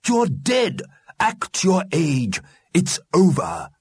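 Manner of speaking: high, emphatic scolding; stern Mister Grimm. A narrator's reading. Mister Grimm rebukes the restless dead, stern. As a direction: land each short sentence deliberately.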